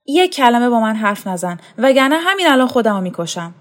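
agitated, quickening and rising in pitch; distraught threat. Acted. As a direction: warn them off in mild desperation. Distraught son threatens to kill himself. (تهدید با آشفتگی)

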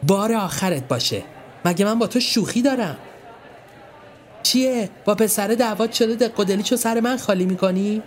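high, sharp scolding; angry warning. Acted. Marzieh scolding her brother, angry. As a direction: tell him off, fed up. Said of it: "اخماشو در هم کشید و گفت".

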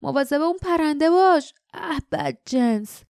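guard growling at the screeching bird. A narrator's reading. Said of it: "صدای دیگری غرید".

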